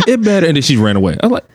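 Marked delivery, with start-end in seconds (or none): 0.1-0.5 put-on high, chirpy child voice; a toddler declaring it's all fixed, pitched up; little daughter, satisfied. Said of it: "then she was like".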